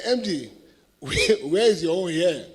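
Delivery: a laugh breaking into a loud, defiant challenge. Retold or imitated. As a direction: call him out in front of the whole hall. Defiant retort to the MD in meeting.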